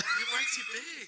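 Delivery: loud laughing mock Asian accent. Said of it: "That was a terrible Asian accent".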